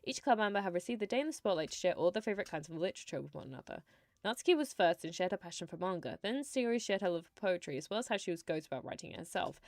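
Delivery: soft, lightly read-aloud narration; story narration. A narrator's reading. Streamer reading visual novel text to viewers, soft narration. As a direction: read the scene out quietly and evenly.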